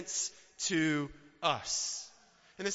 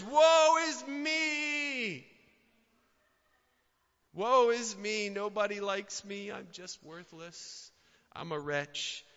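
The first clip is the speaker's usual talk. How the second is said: self-pitying wail; slower than usual. Acted. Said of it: "our response is".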